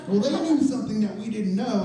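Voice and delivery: ordinary talk, nothing marked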